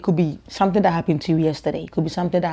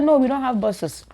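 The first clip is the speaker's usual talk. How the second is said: high, mock-earnest answer; mock serious; 7 semitones higher than usual. Girl trolling a classmate about Africa, high mock-earnest. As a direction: play along, deadpan. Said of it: "I said".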